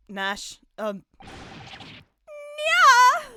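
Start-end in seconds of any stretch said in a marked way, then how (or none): 1.2-3.2 high drawn-out meow; cat meow. Acted. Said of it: "Did you just meow?".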